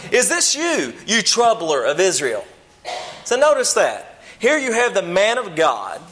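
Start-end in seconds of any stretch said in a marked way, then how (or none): 0.1-2.4 accusing Ahab. Acted. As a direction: spit it out like an angry king. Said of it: "and Ahab said to him".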